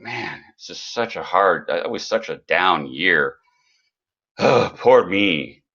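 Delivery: slow, hammed-up moping; mock self-pity. Coach recalling a good year that felt low, slow mock self-pity. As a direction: pretend to feel sorry for yourself. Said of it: "I was looking at the year going".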